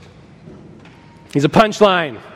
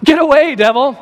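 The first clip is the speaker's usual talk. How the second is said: sharp, raised rebuke; a commanding dismissal, pitched up; 6 semitones higher than usual. Acted. Rebuking the devil aloud.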